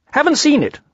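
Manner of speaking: high-pitched animal voice; high storybook rabbit; brisk Rabbit. A narrator's reading. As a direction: answer in a high voice.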